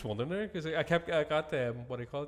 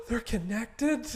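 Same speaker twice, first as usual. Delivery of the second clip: mock alarm; 7 semitones higher, much slower than usual. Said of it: "you're like".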